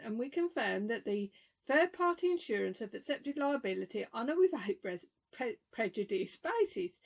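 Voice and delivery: halting read-out of formal wording; reading email aloud. Real, not acted. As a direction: read it off the phone, stumbling on long words. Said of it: "so I'll read it out".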